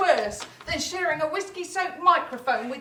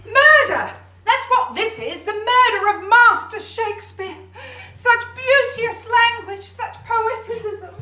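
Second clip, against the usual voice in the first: theatrical outrage; 4 semitones higher, 6 dB louder than usual. Acted.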